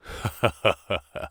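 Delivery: a short soft chuckle, low; short laugh. A narrator's reading. McGinty amused by the coiner's story, soft chuckle. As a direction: chuckle quietly to himself. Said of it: "McGinty laughed".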